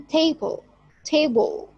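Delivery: TAble, first syllable strong and second weak; stress on first syllable. Shown as a demonstration. Teacher giving an example, table stressed on the first syllable. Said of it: "first syllable here is prominent".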